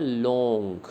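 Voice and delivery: लॉन्ग with a long held "o" vowel; pronunciation demo. Shown as a demonstration. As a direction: stretch the single vowel of लॉन्ग. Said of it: "तो हम बोलते हैं".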